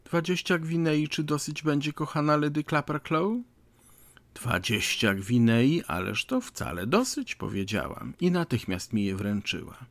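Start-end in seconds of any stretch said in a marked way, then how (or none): 0.0-3.4 higher, softer pleading lady; timid offer. Acted. Petitioner timidly offers money to hostess. 4.3-7.4 measured acceptance. Acted. Hostess repeats and accepts the sum.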